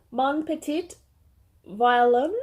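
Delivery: "Mon Petit Violon" as careful, halting French; tentative French pronunciation. Real, not acted. Reading a French-looking designer name she may butcher, tentative pronunciation. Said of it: "probably going to butcher her name".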